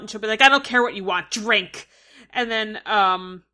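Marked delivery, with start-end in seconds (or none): 0.4-1.9 louder, barked order; mock angry yell. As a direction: snap the order at him. Yara quoted yelling at Theon.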